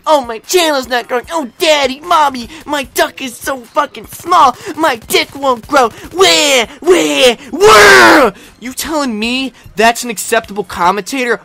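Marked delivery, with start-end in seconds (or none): 0.1-8.3 a whiny crybaby building to a yelled where; mock him like a wailing kid; hammed-up whine that ends in a shout; mock whining. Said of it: "this guy bitching, complaining".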